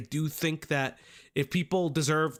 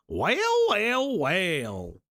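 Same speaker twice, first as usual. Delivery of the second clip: mock southern accent; much slower than usual. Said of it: "southern accent".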